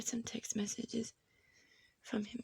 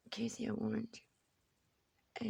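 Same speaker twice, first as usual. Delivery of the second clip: slow, hushed, menacing whisper of the attacker; much slower than usual. Retold or imitated. Retelling the attacker's words to the viewer in a slow whisper. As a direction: breathe the threat out slowly from behind. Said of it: "Edward walked up behind me and said".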